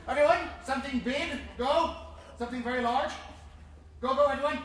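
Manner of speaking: rally the crowd loudly; a cheerleading shout for something big; loud urging. Real, not acted. Urging big audience sounds.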